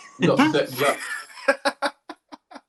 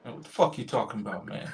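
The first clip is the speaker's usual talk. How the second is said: muted, lower put-on American grumble; mildly annoyed American customer, kept soft; American accent; 4 semitones lower, 7 dB quieter than usual. Customer hears his ticket is no good, put-on American accent. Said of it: "do an American accent".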